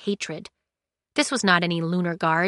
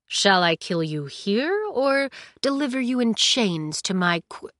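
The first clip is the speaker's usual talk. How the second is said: menacing thaumaturge. Acted. Thaumaturge threatens Cinder, cut off.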